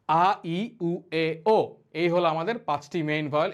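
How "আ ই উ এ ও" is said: আ, ই, উ, এ, ও as separate sounds; read-along vowel drill. Shown as a demonstration. Teacher reads the vowels for learners to repeat, evenly spaced. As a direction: lead a chorus of আ ই উ এ ও. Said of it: "আমার সাথে একসাথে পড়েন".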